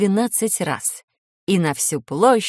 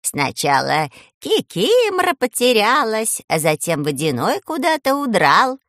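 indignant; 3 semitones higher, 3 dB louder than usual. Acted. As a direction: grumble with indignation. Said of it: "возмущалась".

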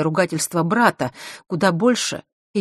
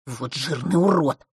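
angry. A narrator's reading. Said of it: "зло отозвался брат Василисы".

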